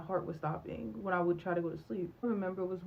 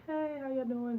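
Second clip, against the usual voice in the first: mock cheerful hello, pitched higher; breezy greeting; 6 semitones higher than usual. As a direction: act like nothing happened, all bright and casual. Popping back up after isolating.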